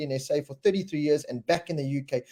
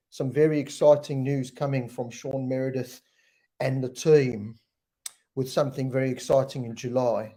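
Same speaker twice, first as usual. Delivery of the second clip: mock British accent. Host jokingly answers viewer about losing his accent, mock British accent. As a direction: put on a British accent as a joke. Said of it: "when you gonna lose the S A accent?".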